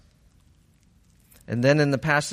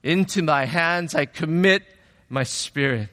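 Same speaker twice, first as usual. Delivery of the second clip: raised voice easing at the end; mild retold yell; 3 semitones higher than usual. Preacher voicing Jesus at the end, mildly yelling. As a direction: call it out, then let it settle. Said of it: "he yells".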